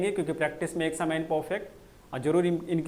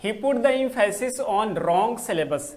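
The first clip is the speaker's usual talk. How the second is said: slow dictation; 4 semitones higher, 4 dB louder, much slower than usual. Shown as a demonstration. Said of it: "put emphasis होता है".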